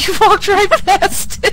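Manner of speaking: laughing while teasing. Real, not acted. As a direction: laugh through the words. Laughing at friend missing bone.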